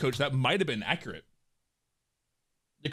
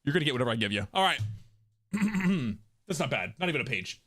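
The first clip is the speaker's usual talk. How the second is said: ordinary talk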